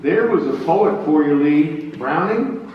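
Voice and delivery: tipsy general. Acted. Grant chatting to Lee.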